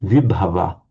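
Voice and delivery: vibhava stressed on its first syllable, vi. Shown as a demonstration. Teacher showing an exception, vibhava stressed on the prefix vi. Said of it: "to stress the vi there".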